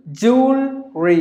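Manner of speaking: "Jewelry" as jool, ree, slowly; two syllables. Shown as a demonstration. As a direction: split "Jewelry" into two beats. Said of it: "two syllables or three syllables".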